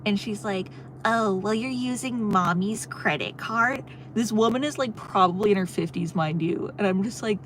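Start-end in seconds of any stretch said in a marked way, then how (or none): 1.0-3.8 mocking mean clerk. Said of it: "started being really mean to me".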